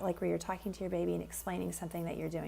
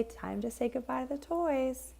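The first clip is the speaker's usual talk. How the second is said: gentle coaxing; 5 semitones higher than usual. Shown as a demonstration. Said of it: "and say".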